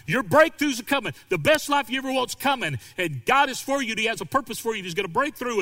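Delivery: high, loud hype-preacher mimicry; mock the hyped-up prosperity preachers; prosperity preacher parody. Mocking prosperity preachers to his flock, loud hyped sermon voice. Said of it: "I hear guys talk about this".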